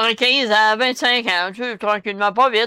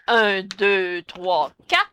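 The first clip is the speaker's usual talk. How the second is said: alternative count; 5 semitones lower, much slower than usual. Shown as a demonstration. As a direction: count the beats out in a lowered voice. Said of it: "Ou encore, on dit".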